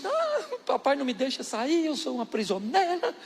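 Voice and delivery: voz de menina, mais aguda, reclamando; queixa dramática. Retold or imitated. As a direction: imite a filha manhosa se lamentando. Prima se queixando à mãe. (leve voz de menina manhosa)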